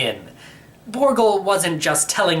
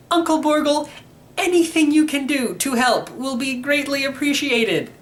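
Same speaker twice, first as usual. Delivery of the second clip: put-on higher, polite pleading young boy; a kid asking for any help; 12 semitones higher than usual.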